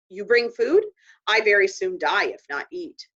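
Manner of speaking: demanding. Acted. Little Bear speaks broken English.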